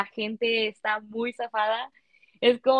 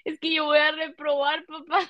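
higher-pitched whiny plea to dad; retold tearful complaint, pitched up; mock crying; 4 semitones higher than usual. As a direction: imitate yourself tearfully pleading. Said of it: "le decía a mi papá llorando".

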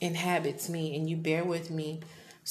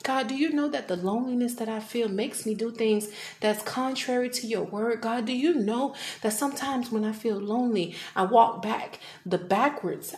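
pleading challenge to God; 4 semitones higher than usual. Retold or imitated. Acted quarrel with God, pleading.

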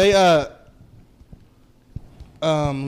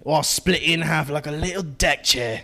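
light mock London thug; lightly voiced Cockney threat; British street accent; 2 semitones lower than usual. Friend playing a London street thug in a light British accent. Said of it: "do some English street garbage".

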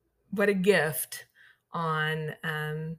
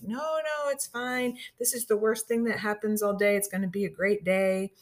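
higher-pitched retold reassurance, easing off; cheerful reassurance; 4 semitones higher than usual. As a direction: lightly imitate an upbeat shop worker waving it away. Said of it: "They were just so cheerful about it".

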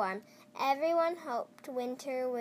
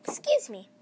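whisper; 8 semitones higher, 7 dB louder than usual. Real, not acted. Reader whispering an aside before the story. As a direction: whisper it under your breath.

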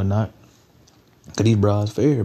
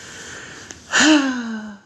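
exasperated sigh; 14 semitones higher than usual. Real, not acted. Exasperated at them getting mad.

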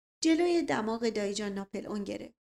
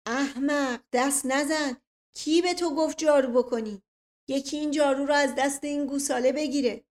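acted outburst at a servant, higher; moderately raised, commanding yell; angry shout; 4 semitones higher, 5 dB louder than usual. A narrator's reading. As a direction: scold indignantly with raised pitch. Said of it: "فریاد کشید".

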